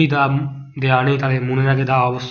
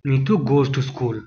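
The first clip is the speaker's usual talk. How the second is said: slow, softer answer read; slow model reading; 2 semitones lower, 4 dB quieter, much slower than usual. Shown as a demonstration. Teacher confirms the answer to students, slowly. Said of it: "এখানে হবে option A".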